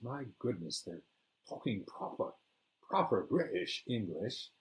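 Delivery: lightly put-on British lilt; a playful touch of British accent. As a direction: mimic proper British English. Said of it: "Their British lilt with a British accent".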